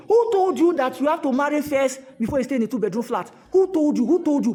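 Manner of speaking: who told you, said loud and insistent; loud, repeated demand; pressing challenge. Real, not acted. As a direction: keep pushing the question at them.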